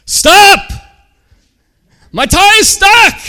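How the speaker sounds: high, very loud shout for help; panicked yell. Acted. Man yelling at a driver pulling off with his tie stuck, shouting. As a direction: yell out in full voice to halt the car. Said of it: "he started to yell".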